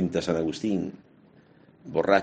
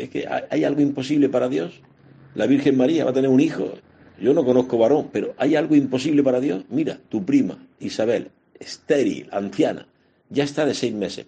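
higher and louder, proclaiming; fervent divine message; 6 semitones higher, 4 dB louder than usual. Retold or imitated. Priest voicing God's message to Mary, raised and proclaiming. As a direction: announce the impossible with rising fervour.

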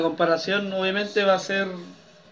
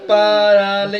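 "Parale-" in separate tapped beats; syllable by syllable; 3 semitones lower, much slower than usual. Shown as a demonstration. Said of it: "Yo golpeo la mesa con los dedos".

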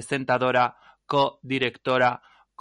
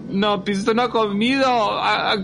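panicked wife; 8 semitones higher, 5 dB louder, faster than usual. Acted.

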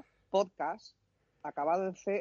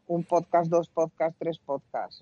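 "Un podcast, dos podcasts, tres podcasts" counted out, each number stressed; counting demo; slower than usual. Shown as a demonstration. Showing the plural by counting it off, each number stressed. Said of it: "en inglés que dicen podcast".

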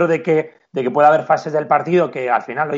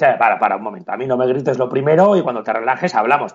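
firm referee; 3 semitones lower than usual. Retold or imitated. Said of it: "venga un tío gritando".

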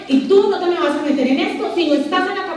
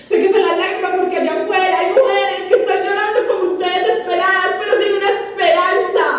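higher, with laughter running through; laughing through it; 5 semitones higher than usual. Real, not acted. Speaker passing on a mentor's comfort, laughing. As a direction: smile and laugh as you speak. Laughs while retelling words.

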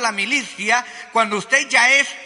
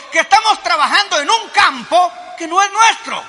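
preaching shout; 5 semitones higher than usual. Real, not acted. Preacher's climax to the congregation.

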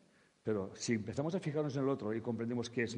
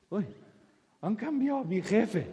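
mock surprise; 8 semitones higher, 5 dB louder than usual. Woman surprised by her boss.

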